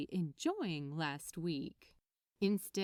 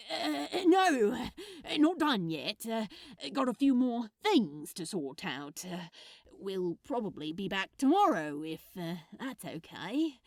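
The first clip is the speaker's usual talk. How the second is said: put-on louder, hesitant young man; awkward Crowley; 6 dB louder than usual. Awkward young man promising to return, hesitant. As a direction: hedge and stall, unsure.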